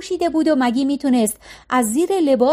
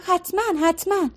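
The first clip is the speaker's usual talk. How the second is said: higher, lilting happy reply; cheerfully sing-song; 7 semitones higher than usual. A narrator's reading. Maggie cheerfully answers Ira's offer of kitchen help, lilting. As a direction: chirp it out gladly, half singing. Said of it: "مگی شادمانه خوند".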